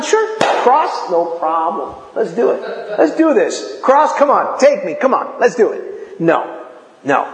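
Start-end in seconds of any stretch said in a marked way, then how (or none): 0.0-6.2 tossed-off, cocky "no problem"; carefree bravado. Retold or imitated. Preacher imitates a godlike Jesus cheerfully welcoming the cross. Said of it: "he'd have been".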